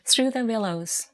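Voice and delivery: deliberate recital, title set apart by a pause; poetry reading. Acted. Poet beginning her poem for listeners, measured recital. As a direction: announce the title, then read it as verse.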